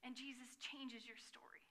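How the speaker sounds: soft whisper; whispered aside. Real, not acted. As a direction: drop to a hushed whisper. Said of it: "unvoiced whisper".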